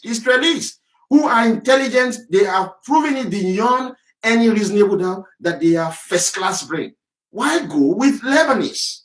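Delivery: rising to a fevered shout, slowing to punch each word; heated shouting rant. Real, not acted.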